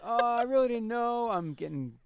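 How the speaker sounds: high, airy playing-dumb voice; mocking her as naive and clueless; mock innocent girl. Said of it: "'Cause she's talking about".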